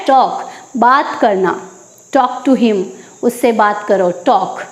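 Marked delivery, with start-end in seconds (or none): 0.1-0.5 slow model word. Shown as a demonstration. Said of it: "क्या पढ़ना है".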